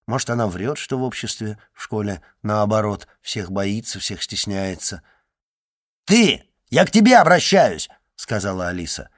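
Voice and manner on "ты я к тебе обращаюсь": high, loud, demanding call; angry shout. A narrator's reading. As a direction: shout for attention, furious. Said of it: "Алиса кричала на Жанну". (сердитый окрик)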